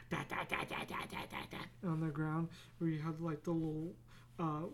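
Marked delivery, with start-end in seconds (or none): 0.1-1.9 chattering teeth noise. Retold or imitated. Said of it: "You go".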